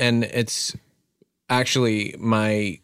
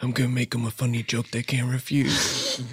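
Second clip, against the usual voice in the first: lightly done mumbling Godfather voice; a hint of a raspy mob boss; Marlon Rando impression; 5 dB quieter than usual. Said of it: "celebrity impression".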